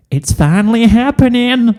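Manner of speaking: high, giddy filly voice; thrilled squeal. Acted. Watching her sister dance, a giddy high squeal. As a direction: let it burst out in delight.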